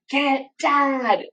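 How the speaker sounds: high-pitched mock yell, drawn out; retold scream. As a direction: imitate screaming for help without full volume. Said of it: "screamed at him".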